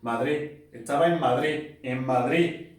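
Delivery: Andalusian "Estaba en Madrid", the s and final d dropped; Andalusian accent. Shown as a demonstration. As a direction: say it like someone from Andalusia: "etaba en Madri". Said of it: "¿cómo sería en andaluz?".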